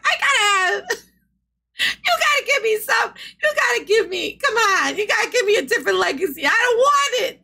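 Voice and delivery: high, laughing, half-sobbing protest; laughing plea. Real, not acted. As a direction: beg through real laughter. Laughing protest over embarrassing legacy.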